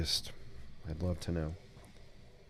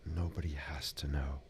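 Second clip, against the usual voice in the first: soft, lower ASMR voice; 5 semitones lower, 6 dB quieter than usual. Pretend. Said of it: "I'm trying to do an A S M R voice".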